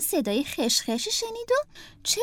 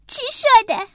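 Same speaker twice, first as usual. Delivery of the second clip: higher, louder worried question; concerned Franklin; 9 semitones higher, 8 dB louder than usual. Acted. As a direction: ask what's wrong, caring.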